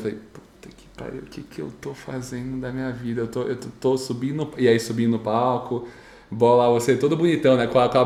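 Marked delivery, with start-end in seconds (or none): 0.3-3.2 whispered curse under his breath, then a hushed question; nervous hushed self-talk; panicked whisper. Retold or imitated. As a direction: mutter it to yourself in panic. Panicked thought as he went onstage.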